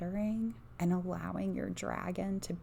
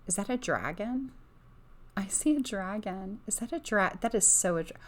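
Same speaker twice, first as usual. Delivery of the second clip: louder, excited, voice climbing; can't hold back the thrill of spotting it; rising excitement; 2 semitones higher, 4 dB louder than usual. Real, not acted. Reader spots a dragon on the card, getting excited. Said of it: "I'm about to get super hyped right now and raise my voice".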